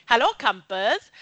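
put-on lightly done Welsh accent on "hello, campers"; a light Welsh holiday-camp greeting. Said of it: "It's my Welsh accent".

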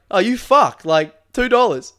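high, loud hammed-up protest over the price; mock outrage. Pat haggling with the baker over tarts, hammed-up yell. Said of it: "Pat's like".

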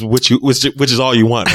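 ordinary talk, nothing marked

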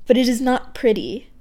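deliberate recital of a corrected line; poem reading. Acted. Poet rereading a line she misread, deliberate poem voice. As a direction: read the line properly, back in poem voice. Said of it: "I misread my own poem there".

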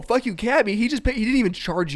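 mock offended echo. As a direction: echo it back hurt. Cabbie repeats insult back.

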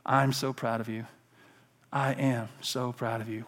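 soft, low, unhurried reassurance; whispered pride. Acted. God encouraging his child, soft and low. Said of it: "God would whisper these four".

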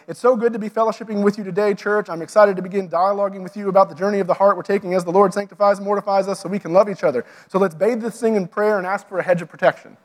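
lightly mimicked church host, quick patter; church jargon spiel. Host greeting the congregation in jargon, quick mock church-speak. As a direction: rattle off churchy jargon as a stage welcome. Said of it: "what I mean by needless jargon".

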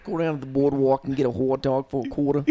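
mock Boston accent. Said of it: "in a Boston accent".

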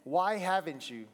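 lightly voiced whiny child asking; a hint of a pleading kid. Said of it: "I should do a kid voice".

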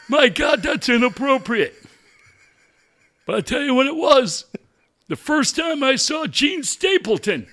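a hint of a creaky old fan calling in; old man phoning a coach's show, lightly voiced; old caller.

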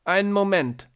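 put-on high, loud little old lady; old woman voice. A narrator's reading. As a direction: play a nervous old lady. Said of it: "sagt die Frau".

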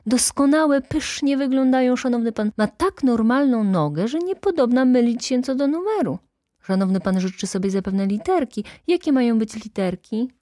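put-on high, animated young clerk flattering a customer; effusive, lilting sales patter; gushing salesman. A narrator's reading.

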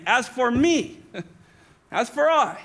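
firm emphasis, slowing and dropping to a hush; emphatic stance. Acted. Preacher voicing Paul's stand against the church's arrogance, emphatic. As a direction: state it emphatically, then let it sink. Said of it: "I'm gonna say my emphatic stance".

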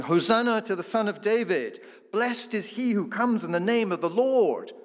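loud, high-pitched joyful acclamation; crowd shouting praise. Acted. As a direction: cry it out like a welcoming crowd. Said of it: "They're shouting".

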